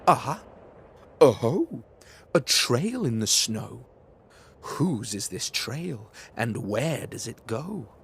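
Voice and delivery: put-on loud, bright discovery voice of a little monster child; a kid who just found a clue; excited child. Gruffalo's child finding a trail, excited.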